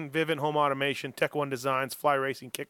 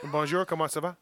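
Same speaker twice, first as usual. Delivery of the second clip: mock French. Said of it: "You wanna do it in French?".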